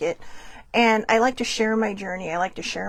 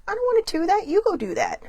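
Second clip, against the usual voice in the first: 1 whiny refusal; 10 semitones higher than usual. Retold or imitated. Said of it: "And it's like".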